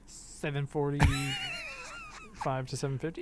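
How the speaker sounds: high, slow, wailing fake sob; mock crying. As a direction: whine the numbers like weeping.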